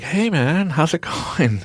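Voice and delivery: high, breezy mock God; a laid-back God dropping in; lightly voiced chill deity; casual God. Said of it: "God comes down and is like".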